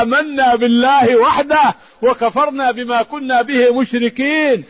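measured, ringing recital of scripture; Quran recitation. Acted. Preacher quotes scripture to the congregation, solemn recitation.

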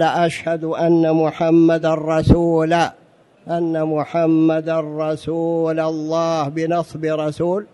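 "رسول" said with the nasb ending "rasula", slowly; wrong case ending. Shown as a demonstration. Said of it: "لحن يحيل المعنى".

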